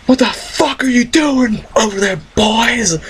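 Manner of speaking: squeaky put-on voice; high mocking voice. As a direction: voice him high and silly. Celebrity neighbor voiced.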